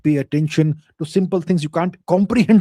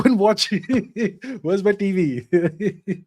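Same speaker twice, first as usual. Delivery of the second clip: laughing; 4 semitones higher, much slower than usual. Real, not acted. Joking about watching Delhi police.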